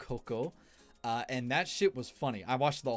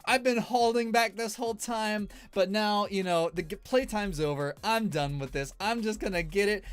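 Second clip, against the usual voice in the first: cocky, higher, louder boast; imitating Pekora; 7 semitones higher, 6 dB louder than usual. Retelling the streamer's boast before the crane grab, mock cocky. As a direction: puff up before the claw drop. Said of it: "she's just like".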